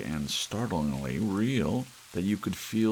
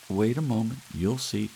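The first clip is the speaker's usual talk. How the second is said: higher, louder eager wife; wife's voice; 7 semitones higher, 4 dB louder than usual. Acted. Wife urging husband to wait and watch, higher voice. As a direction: lift into the wife, keen to show him.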